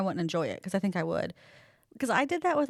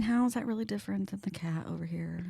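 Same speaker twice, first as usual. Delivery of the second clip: whisper; 6 dB quieter than usual. Real, not acted. Whispering beside the cat.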